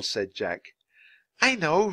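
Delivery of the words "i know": high-pitched, restrained shout; lightly acted shouted reply. A narrator's reading. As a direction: call back in a raised pitch. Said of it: "shouted Annie".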